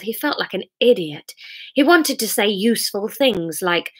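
measured, expressive narrator; dramatic story narration. A narrator's reading. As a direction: paint the storm as you read. Reads story aloud.

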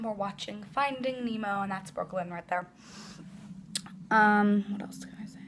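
hushed whisper beside a roommate. Real, not acted. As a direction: keep it down, half whispered. Roommate watching a movie nearby.

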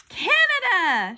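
high, loud, drawn-out shout; girl's shouted answer. A narrator's reading. Girl beating her rival in a quiz, shouting. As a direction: call it out slowly and loudly. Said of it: "shouted Andrea".

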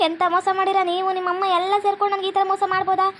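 wounded, building indignation; hurt accusation. Acted. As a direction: demand answers from the one who deceived you. Wife confronts husband over deception.

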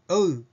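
おう said as o gliding into u; ou glide. Shown as a demonstration. Pronunciation teacher showing the gliding おう sound. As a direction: stretch おう from o into u. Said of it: "と発音されるのが普通です".

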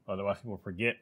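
ordinary talk

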